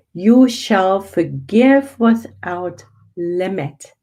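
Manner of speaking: "You shall forgive without limit" read slowly, each word weighed; slow emphatic reading. Shown as a demonstration. Reading the teaching again to the group, slowly and deliberately. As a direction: let every word land, slowly. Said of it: "We're gonna read this again".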